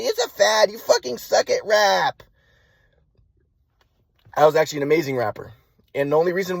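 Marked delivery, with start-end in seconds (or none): 0.0-2.2 mock scolding with a drawn-out ending; insisting mother imitation. Mom insisting rap is a fad, lightly mocked scolding. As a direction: mimic mom insisting, stretching the last words. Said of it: "but she's like".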